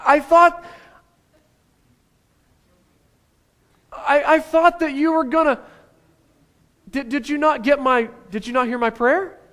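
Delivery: a hint of a high, whiny complaint to God; hurt believer. Believer asking God why the plan failed, lightly whiny. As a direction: whine at God, mildly wounded. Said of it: "Anybody ever felt this in your life".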